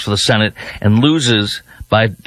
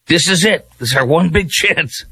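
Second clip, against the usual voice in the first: mock excited Democrat; 5 semitones higher than usual. Mimics Democrats hyping candidate.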